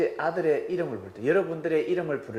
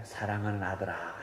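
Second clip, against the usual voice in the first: lightly voiced tender father, softer; loving tone; 6 semitones lower, 6 dB quieter than usual. Father luring his son with a softened, loving call. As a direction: coax him sweetly. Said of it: "목소리 톤을 바꾸니까".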